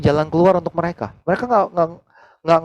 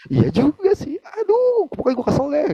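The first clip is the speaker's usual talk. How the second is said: higher, fed-up friend conceding; the friend's voice; 14 semitones higher than usual. Retold or imitated. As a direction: give in with a sigh of annoyance. Friend admits, annoyed. (suara teman yang kesal, lebih tinggi)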